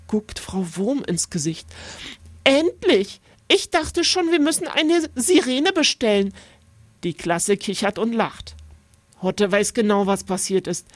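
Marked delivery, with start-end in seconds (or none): 2.4-6.3 hoch und leicht spöttisch; spöttische Lehrerin. A narrator's reading. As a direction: weck ihn mit ironischem Spott. Lehrerin weckt Hotte spöttisch. (Lehrerin spottet über den Schläfer)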